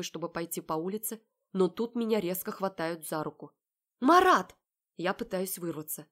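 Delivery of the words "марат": high, loud gasp of a name; startled cry. Acted. Heroine startled as Marat grabs her, crying out. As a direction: cry out in shock.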